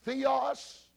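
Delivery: theos said slowly as thee-os; Greek word demo. Shown as a demonstration. Teacher shows the class the Greek word theos, carefully spelled out in sound. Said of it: "the word is".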